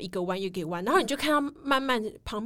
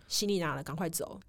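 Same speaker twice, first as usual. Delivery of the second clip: urgent low aside; 4 semitones lower, 7 dB quieter than usual. Retold or imitated. Urging friends to flee quietly.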